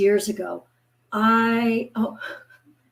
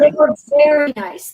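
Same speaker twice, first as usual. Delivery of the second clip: emphatic; 4 semitones higher, 7 dB louder than usual. Real, not acted. Emphatic first saying.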